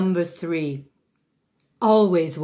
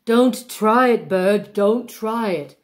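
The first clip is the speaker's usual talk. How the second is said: higher, mock stern warning; warning the fake bird; 4 semitones higher than usual. Shown as a demonstration. Diva scolding her fake prop bird, mock stern. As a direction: shoo the bird off, hammed-up. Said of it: "Sometimes you can use all three".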